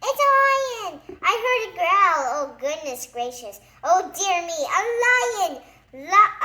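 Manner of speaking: high, loud hysterical wailing fading out; panic. A narrator's reading. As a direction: wail about the lion, fading at the end. Mister Jelly fears the lion.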